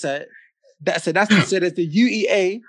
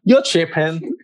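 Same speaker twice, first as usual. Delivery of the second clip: put-on American slang delivery; American accent; slower than usual. Shown as a demonstration. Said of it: "in your best American accent".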